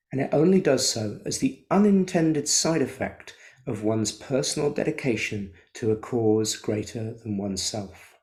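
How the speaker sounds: measured recital of Frankl's words; quote reading. Acted. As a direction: read it out measured and weighty. Reads Frankl quote aloud.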